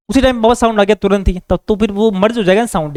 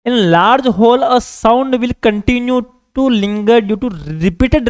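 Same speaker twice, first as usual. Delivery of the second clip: very slow, word by word for copying; measured note-dictation voice; much slower than usual. Acted. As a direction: dictate it so students can write it down. Teacher dictates notes in English.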